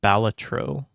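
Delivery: Balatro with a short flat A, stress on the first syllable; BAL-a-tro. Shown as a demonstration. Streamer reading chat, trying the chat's way of saying it. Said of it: "so you say".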